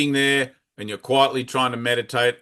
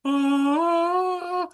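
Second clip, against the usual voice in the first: a single sung-out angelic "Ah," pitched far higher; heavenly angel voice. Retold or imitated. Mocking movie angels speaking through clouds, sung high. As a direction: float an angel's cry down from the clouds. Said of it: "the angels spoke through the clouds".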